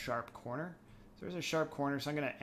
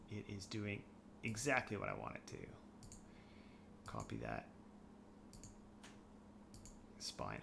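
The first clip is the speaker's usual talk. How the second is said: holding breath; 7 dB quieter than usual. Real, not acted. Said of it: "I'm holding my breath".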